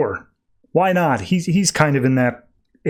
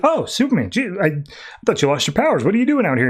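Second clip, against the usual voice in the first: raised pitch, mock-surprised greeting; 5 semitones higher, faster than usual. Aquaman greeting Superman in a mock surprised voice. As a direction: fake wide-eyed surprise. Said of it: "he's just like".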